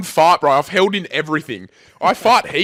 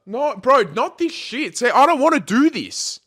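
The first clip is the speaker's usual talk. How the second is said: high-pitched, anxious protest; real scared pleading; 7 semitones higher than usual. Real, not acted. Refusing to talk to the ghost, scared pleading. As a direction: plead to get out of it. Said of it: "I'm f-, scared".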